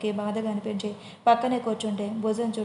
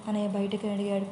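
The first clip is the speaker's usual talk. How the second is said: plain reading voice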